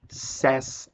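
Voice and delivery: "says" with an open e, "sés"; pronúncia de says. Shown as a demonstration. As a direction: model the changed vowel in "says": "sés". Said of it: "Aqui muda a pronúncia". ("says" dito "sés", com e aberto)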